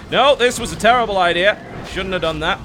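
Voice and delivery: mock panicked regret. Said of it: "It's like".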